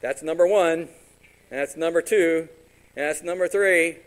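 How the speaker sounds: mock counting. Pastor mocking someone counting forgivenesses, loud and pointed. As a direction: tick them off loudly like a scorekeeper. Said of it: "go up to the guy and go like".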